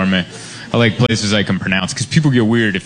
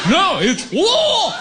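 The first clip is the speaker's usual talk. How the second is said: high shouted crowd correction; mocking crowd correction; much slower than usual. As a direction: yell it back like an angry crowd. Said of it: "And I tried".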